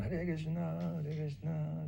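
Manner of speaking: slow, high, gloomy mock chant; frowning greeting. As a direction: greet them with a big frown, drawn out. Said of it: "with a big frown".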